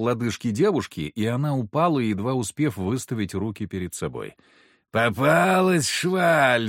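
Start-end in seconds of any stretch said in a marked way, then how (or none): 4.9-6.7 put-on slow, drawn-out gloating drunkard; lightly voiced drunk lout crowing; mock drunken triumph; gleeful drunk yell. A narrator's reading. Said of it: "заорал довольный хмырь".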